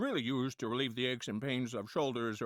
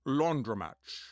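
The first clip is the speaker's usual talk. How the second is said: Sean Connery impression; slower than usual. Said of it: "Sean Connery".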